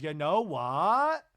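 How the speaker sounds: loud, slow, pointed build-up; emphatic setup. Retold or imitated. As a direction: start a firm answer with weight. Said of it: "And Lisa goes".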